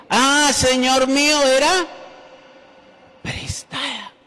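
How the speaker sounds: high, loud anguished cry; desperate cry. A narrator's reading. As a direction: cry out in dismay over the lost axe. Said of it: "y gritó diciendo". (grito angustiado, agudo y fuerte)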